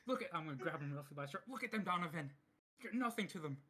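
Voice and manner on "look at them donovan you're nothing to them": raised, pleading and intense; urgent raised voice. Acted. Grabbing his ally by the shirt, an urgent raised plea. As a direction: grab him by the shirt and make him listen.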